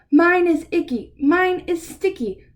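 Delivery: high whiny critter voice; whiny critter complaint. Acted. Reading to kids, critters whining to the waiter about their food. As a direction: whine about the food like a fussy kid.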